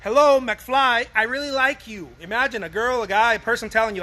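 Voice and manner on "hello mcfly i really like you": mock knock-knock. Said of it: "Uh, no".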